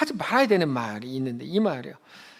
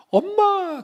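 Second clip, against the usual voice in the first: high, loud call of "엄마"; a child's sudden cry for her mother; tearful girl calls her mother after a long misunderstanding; crying out to mom; 13 semitones higher, 4 dB louder, much slower than usual. Retold or imitated.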